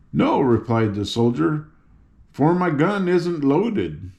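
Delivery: a hint of a bumbling soldier; mild soldier voice. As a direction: admit it sheepishly.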